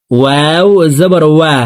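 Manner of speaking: ওয়াও and ওয়া with both lips rounded. Shown as a demonstration. Teacher demonstrates the letter, ওয়াও said through rounded lips. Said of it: "দুই ঠোঁট গোল করে".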